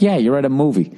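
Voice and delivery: ordinary talk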